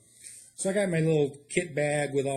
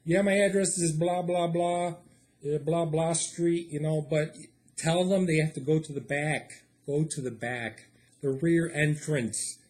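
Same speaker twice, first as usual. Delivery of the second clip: caller giving directions; 3 semitones higher, 3 dB louder than usual. Retold or imitated. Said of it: "I call nine one one".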